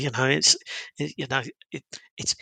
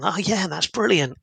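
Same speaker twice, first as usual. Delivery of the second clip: higher-pitched, friendly enthusiasm; upbeat exclamation; 5 semitones higher than usual. Acted. Writing an upbeat work email as spoken, enthusiastic exclamation. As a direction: say it like a cheerful exclamation mark. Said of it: "exclamation mark".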